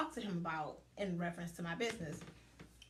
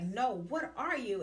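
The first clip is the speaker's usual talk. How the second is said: slow, louder "what are you"; insistent retold question; 3 semitones higher, 5 dB louder than usual. Coach keeps asking her the same question, insistent. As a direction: press hard on "what are you", drawn out.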